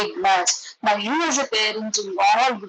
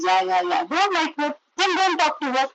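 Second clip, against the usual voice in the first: dismissive agreement; 4 semitones higher than usual. Shown as a demonstration. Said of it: "We are not saying".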